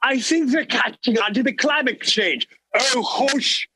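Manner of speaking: high scheming English servant; posh British plotting voice; English accent. Acted. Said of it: "I heard an English accent".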